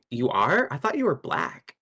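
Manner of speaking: ordinary talk, nothing marked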